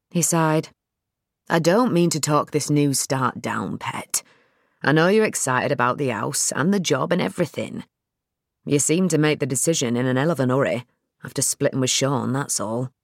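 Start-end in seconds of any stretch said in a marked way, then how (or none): 1.5-12.9 dad's voice. Acted.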